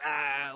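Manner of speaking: imitated scream at no great volume; half-hearted "aah" mimicking a fighter's scream; mild mock scream. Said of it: "screaming to the crowd".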